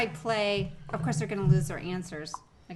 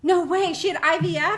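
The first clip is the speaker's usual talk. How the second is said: high shocked disbelief; surprised; 8 semitones higher, 5 dB louder than usual. Real, not acted. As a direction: gasp out the question. Shocked at news.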